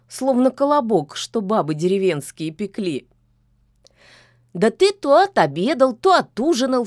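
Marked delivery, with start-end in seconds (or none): 4.5-6.8 louder scoffing witch; snorting scold. A narrator's reading. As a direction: scoff at the lazy cat. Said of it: "фыркнула ведьма". (насмешливо, громче)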